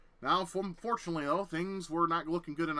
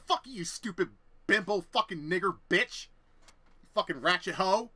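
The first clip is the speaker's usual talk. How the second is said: loud, drawn-out cursing; slow furious insults; 3 semitones higher, 6 dB louder than usual. Retold or imitated. Cursing the roommate back mid-fight, slow loud fury. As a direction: spit each insult slowly.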